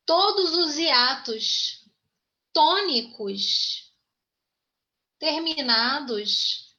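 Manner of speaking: slow dictation with pauses between phrases. Real, not acted. Teacher giving the class notes to write down, slow dictation. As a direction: dictate slowly, stretching the stressed vowels. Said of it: "anotem aí umas dicas pra vocês".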